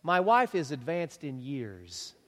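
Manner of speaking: slow, careful stress on advanced in years; diplomatic phrasing. Shown as a demonstration. Pastor quoting Zechariah to husbands, slow and careful. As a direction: lay each word down gently. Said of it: "What did he say?".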